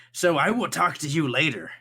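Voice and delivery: cheerful quick goodbye; excited NPC voice. Acted. Cyril voiced by GM.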